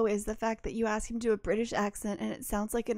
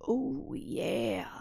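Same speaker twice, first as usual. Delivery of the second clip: imitating the alert voice; 4 dB quieter than usual. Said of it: "it makes this voice that goes".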